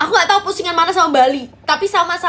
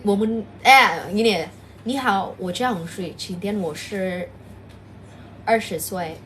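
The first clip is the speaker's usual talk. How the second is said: mock Chinese; 8 semitones lower, 5 dB quieter than usual. Shown as a demonstration. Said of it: "Kalau Cina tuh gini".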